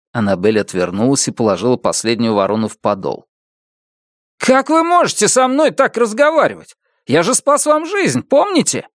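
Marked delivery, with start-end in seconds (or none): 4.4-8.9 high, indignant whine; offended neighbor. A narrator's reading. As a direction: play the wronged savior. Neighbor offended, claims saved her. (обиженный сосед)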